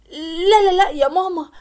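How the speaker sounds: urgent protest. Acted. Pregnant daughter protesting to her mother. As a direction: stop her mother calling.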